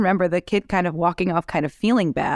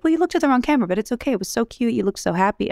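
much higher, sugary mock of mom; mom consoling; 7 semitones higher, faster than usual. Daughter imitating mom explaining wrong camera, high and cooing. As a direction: coo it like a gentle mother softening bad news. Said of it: "And she's like".

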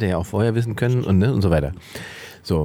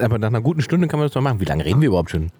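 chewing while talking; faster than usual. Real, not acted. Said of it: "wird wieder geschmatzt".

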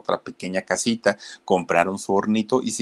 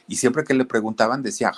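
ordinary delivery

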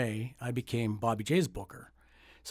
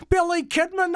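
boxing ring announcer; 6 dB louder than usual. Retold or imitated. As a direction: drag the name out for the crowd. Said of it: "ring announcer voice".

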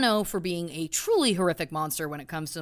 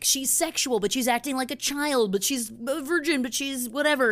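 higher-pitched sing-through list of mock objections; mock public fuss; 5 semitones higher than usual. Host imitates people thrown into a tizzy over a singer, mock fuss.

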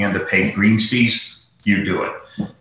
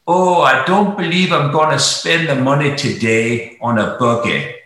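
put-on central Pennsylvania country accent, raised in pitch at first; 4 semitones higher than usual. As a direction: imitate a Lebanon County local. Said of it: "in a very distinctive voice, and I'll do my best imitation".

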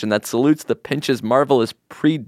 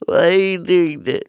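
higher, louder put-on voice; 7 semitones higher, 3 dB louder than usual. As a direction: squeal it in mock dismay. Pointed at again.

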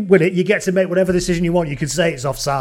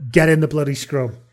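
retelling the ref's line louder through laughter; laughing quote of referee; 4 dB louder than usual. Retold or imitated. Retelling the referee's put-down to the captain, laughing. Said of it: "captain's challenge to Bill Harrigan".

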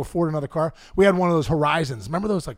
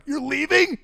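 incredulous mom; 10 semitones higher, slower than usual. Retold or imitated. Mom at dad.

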